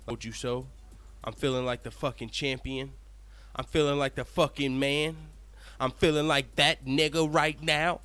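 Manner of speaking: smug, boastful champ talk; gloating translation. Pretend. The fighter's secret thoughts, smug and gloating. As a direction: gloat like you just got vindicated. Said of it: "What he wants to say is".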